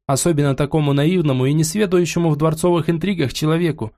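jealous royal wife warning; ревнивая королева. Acted. Queen warns her husband. (настороженная ревнивая королева)

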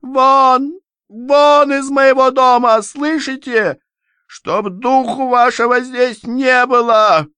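very high, screeching shout; mother screaming at the son-in-law to leave; shrieking order out. Acted. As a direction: screech him out of the house. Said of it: "пронзительно взвизгнула".

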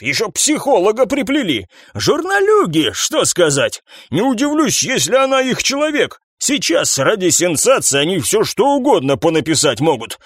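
high, scornful boss voice; mock the journalists; sneering captain. Captain showing detectives the newspaper, high and scornful.

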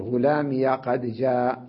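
slow غلامي said as ghulamiya; ya with fatha. Shown as a demonstration. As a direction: link غلامي to قد with an open -ya. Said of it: "هكذا يقول". (فتح الياء في الوصل)

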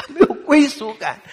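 high, loud laugh through the words. Real, not acted. Son laughing while retelling his father's loneliness, high and loud. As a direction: laugh as you quote him.

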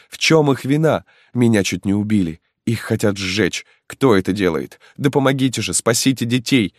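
high, pleading, near-hysterical cry; desperate, breaking pleading voice; frantic mother's plea. Acted. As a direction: beg the crowd to save her children. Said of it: "молила, ломая руки, бедная мать".

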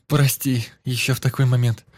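high, loud flustered sorry; loud apology. A narrator's reading. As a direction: blurt the apology out. Girl apologises after screaming.

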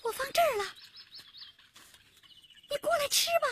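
high, careful coaxing voice; placating, pitched high. Acted. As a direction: gently lure an angry bear over. Coaxing a bear with honey.

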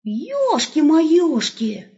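high, slow drawn-out amazement; wolf knocked back in shock; shocked exclamation. Acted.

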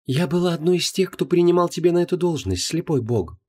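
high, pointed goddess voice; goddess changing tone. Acted. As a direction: turn sharp, pointed. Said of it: "резко сменила тон Инанна".

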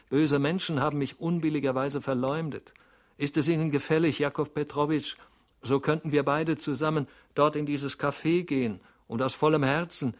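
loud, high, eager pleading. A narrator's reading. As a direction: keep begging, fast and earnest. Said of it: "rief er kläglich". (flehend und eindringlich)

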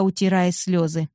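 ordinary delivery

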